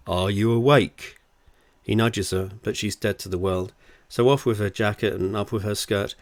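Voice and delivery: steady, deliberate audiobook read; story narration. Acted. Author reads their novel to listeners, story narration. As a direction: tell it as a wry storyteller.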